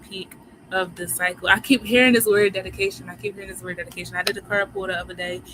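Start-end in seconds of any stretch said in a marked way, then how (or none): 1.5-3.1 louder, pressing the point; first take, emphatic and louder. Real, not acted. Repeats the phrase, first emphatic. 3.1-4.1 softer and fast, to herself; second take, quick soft echo; quick aside. Real, not acted. Repeats the phrase, then murmured.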